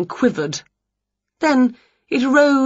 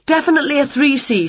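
lively high witch voice, quick; eager little witch; a bright excited witch; Winnie voice; 8 semitones higher, 3 dB louder, faster than usual. Acted.

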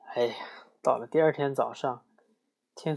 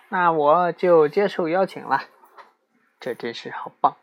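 higher, louder little spider voice; a tiny spider, pleased and eager; 4 semitones higher, 7 dB louder than usual. Acted. (高亢响亮的小蜘蛛声音)

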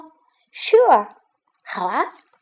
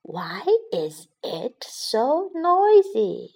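yawning; much slower than usual. Acted. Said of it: "它打着哈欠爬起来".

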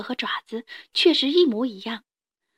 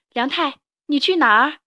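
mother calling out; 4 semitones higher, 5 dB louder than usual. Acted. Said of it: "妈妈叫着".

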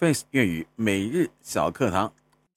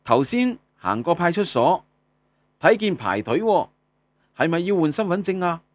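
high, loud, animated Cantonese questioner; acted dialogue question; 7 semitones higher, 5 dB louder than usual. One friend asking another about the police-station queue, animated and high-pitched. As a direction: ask it as a lively dialogue character. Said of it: "我们来看一下粤语日常用语对话".

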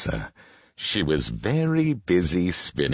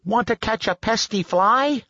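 very high rooster character voice; crowing rooster; 4 dB louder than usual. A narrator's reading. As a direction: ask as a crowing storybook rooster. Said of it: "crowed the rooster".

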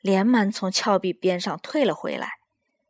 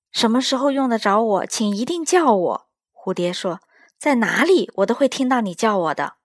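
quick, raised butterfly voice; eager little butterfly; 3 dB louder than usual. Acted. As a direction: promise it eagerly and fast. Butterfly makes a promise.

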